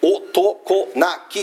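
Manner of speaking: 男泣き split into separate beats, o-to-ko-na-ki; syllable by syllable. Shown as a demonstration. Preacher showing a rhyming word to the congregation, syllable by syllable. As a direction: sound out 男泣き one mora at a time. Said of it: "同じくお、".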